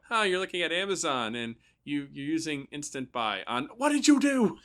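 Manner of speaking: alarmed parent. Retold or imitated. Parent finding kids on Amazon, rising to panic. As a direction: catch the kids mid-purchase. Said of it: "walk in the room and go".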